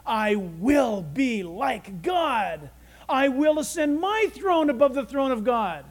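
lightly voiced proud Satan; boastful Satan. Satan boasting in his heart, mildly acted pride. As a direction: declare it with measured self-exalting weight. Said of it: "Satan fell from heaven because he said".

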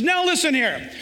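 firm gentle Jesus. Acted. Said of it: "And Jesus says".

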